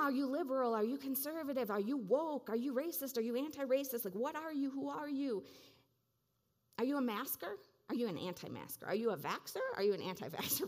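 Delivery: loud, pushy rapid-fire questions; media shouting labels. Retold or imitated. Media feed shouting labels at the listener, loud and pushy. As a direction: bark each label like a jeering crowd. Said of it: "you're being surrounded with".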